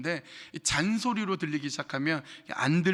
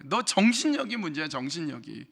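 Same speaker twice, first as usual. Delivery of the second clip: mock scolding. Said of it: "윽박 지르고".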